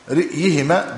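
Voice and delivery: "رئيهما" with kasra on the ra and a still hamza before the ya; "رئيهما": short i after r, glottal stop, then y; vowelled reading. Shown as a demonstration. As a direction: say "رئيهما" as ri'-yi-hima, catching the hamza. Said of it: "براء مكسورة ثم همزة ساكنة ثم ياء".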